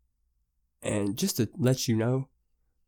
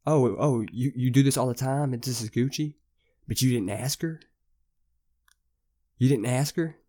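higher, louder, scolding the friend; panicked scolding; 4 semitones higher, 4 dB louder than usual. Retold or imitated. Scolding friend about the car.

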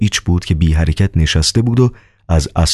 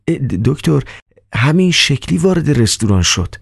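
stammering Riukhin; 9 semitones higher than usual. Acted.

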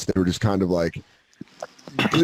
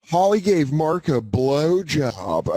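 slow jokey taunt; 2 semitones higher, much slower than usual. Retold or imitated. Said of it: "I jokingly was like".

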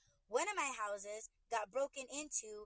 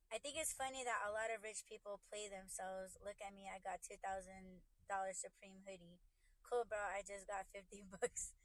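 reading a message aloud; 2 semitones lower, 5 dB quieter than usual. Real, not acted. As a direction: read out a viewer's comment quietly and evenly. Reads a chat message.

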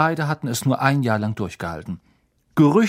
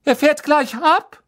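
high, loud urgent call; voiced as Molly, high and loud; 7 dB louder than usual. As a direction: call across the platform in a hurry. Molly calling out at the train.

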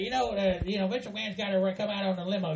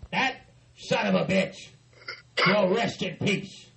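shaking with anger. Pretend. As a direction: punch out each word in rage. Boss rants about a fighter.

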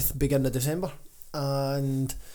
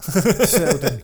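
slow drawn-out settle down; 6 dB louder, much slower than usual. Retold or imitated. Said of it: "you and me kinda looked at going".

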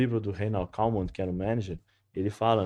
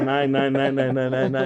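mock stutter on nai, louder; stuttering teacher; 3 semitones higher, 6 dB louder, slower than usual. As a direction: mimic a stammer on each nai. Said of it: "Ele é gago, né?". (imitando um gago, nai repetido)

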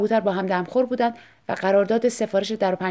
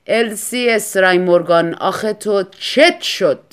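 pleading husband; 7 dB louder, slower than usual. Acted. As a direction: drag out the plea to his wife. (شوهر با التماس آهسته و بلند)

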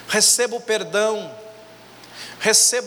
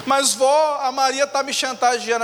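whiny complaint; 5 semitones higher than usual. Retold or imitated. Boy complains to grandma.

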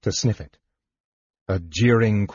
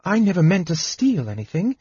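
put-on much higher, tearful young woman pleading; snuffling protest; 8 semitones higher than usual. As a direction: protest with a little sniffle. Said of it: "Usha protested, snuffling a little".

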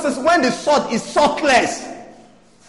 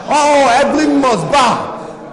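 commanding prayer. Acted. Prays again commanding the devil.

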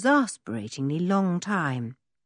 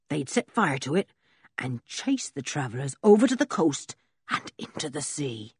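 put-on rough old blacksmith. Blacksmith Ben's voice.

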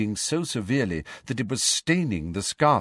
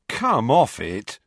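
groaning; 3 semitones higher, 4 dB louder, slower than usual. Acted. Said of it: "groaned Ron".

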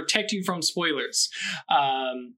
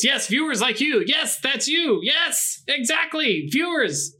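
hyper, high-pitched and giddy; bouncing off the walls on caffeine; too much caffeine; 7 semitones higher, slower than usual. Real, not acted. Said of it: "the caffeine has definitely kicked in".

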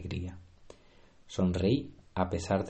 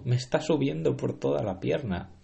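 higher panicky voice; alarmed; 5 semitones higher than usual. Acted. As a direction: panic as it climbs. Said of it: "gritó".

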